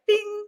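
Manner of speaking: high-pitched video game ping; sound effect. Retold or imitated. Sword appearing like a video game.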